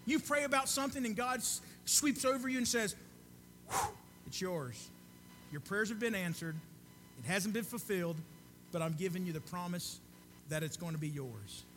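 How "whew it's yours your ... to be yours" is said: voice of God. Acted. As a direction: breathe it out gently, like God whispering a promise. God speaking promise to the heart.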